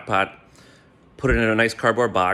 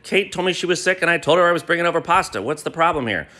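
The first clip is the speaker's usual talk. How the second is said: higher, fast mock-innocent question; playing dumb; 7 semitones higher, faster than usual. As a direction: feign confusion, all innocence. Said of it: "I played dumb again".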